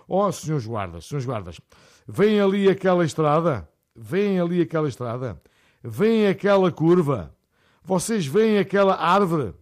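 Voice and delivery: put-on slow, loud insistent old man pointing things out; old man witness. Old man to the GNR officers, slow and loud.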